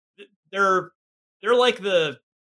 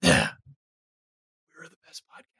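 secret whisper; 3 semitones lower, much faster than usual. Real, not acted. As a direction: whisper it like a confession. Confiding a secret boast.

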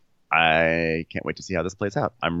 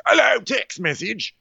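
mock phone voice. Phone announcing a text.

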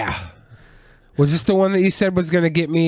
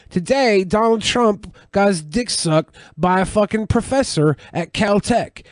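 mock newscaster read, a touch higher; news anchor; 5 semitones higher than usual. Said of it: "reading the news".

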